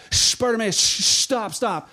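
shushing. Retold or imitated. Crowd tries to silence the blind man, urgent shushing. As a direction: hush someone making a scene. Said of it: "those same people who shushed him".

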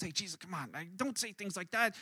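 soft, low aside to Jesus; hushed, half-whispered retelling; mock hushed tones. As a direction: take him aside and urge him quietly. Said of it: "he's whispering in hushed tones".

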